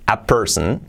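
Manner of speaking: "Is that a person?" slowly, rising at the end; slow model question. Shown as a demonstration. Teacher models the question slowly for learners. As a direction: spell the question out slowly with a rise. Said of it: "¿Cómo sería?".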